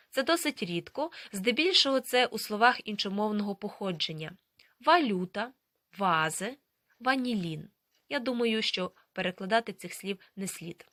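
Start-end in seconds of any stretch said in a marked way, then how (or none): 4.8-7.7 "Валюта, вази, ванілін" each starting on a voiced v; German V as V. Shown as a demonstration. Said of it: "як звук В".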